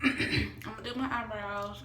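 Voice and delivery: talking while chewing gum. Real, not acted. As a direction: speak around a wad of gum. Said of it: "I'm sorry I'm chewing gum".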